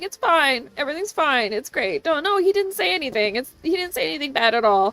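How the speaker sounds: forced cheerful while crying. Retold or imitated. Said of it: "As I'm sitting here crying".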